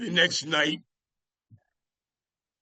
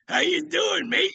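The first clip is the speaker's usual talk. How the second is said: much higher, louder, bright greeting mimicking a rock singer; lively rock-singer voice; 13 semitones higher, 3 dB louder than usual. The rock singer greets the Boston bartender backstage in a high, lively voice. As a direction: pitch it way up like an eager rock star saying hello.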